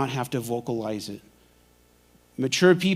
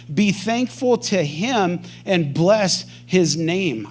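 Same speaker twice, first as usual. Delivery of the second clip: slow scripture reading; 3 semitones higher, much slower than usual. Acted. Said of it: "It says".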